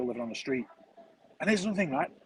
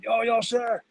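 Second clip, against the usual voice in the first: high, loud call of a Turkish man; imitating the guy shouting after him; mock yell; 8 semitones higher, 4 dB louder, much slower than usual. Turkish guy shouting at him from the road, high mock yell. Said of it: "come screaming out after me".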